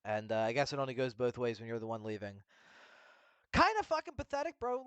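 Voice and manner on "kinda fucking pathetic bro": scornful. Real, not acted. Scornful outburst.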